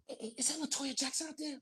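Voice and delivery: high-pitched starstruck disbelief; imitating Jesse. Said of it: "and Jesse says".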